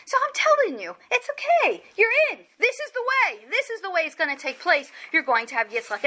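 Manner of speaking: gently reassure, as a retold comforting God; calm reassurance. God tells Sarah she is in, calm reassurance. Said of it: "He's actually very calm".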